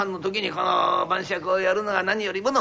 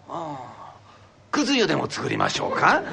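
put-on old wife; 4 semitones lower than usual. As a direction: answer innocently, missing the hint. Wife answers.

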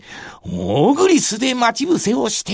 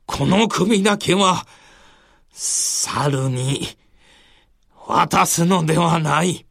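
dying lord. Acted. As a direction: speak last words with resolve. Dying Mitsuhide's last words. (覚悟を決めた武将の声で)

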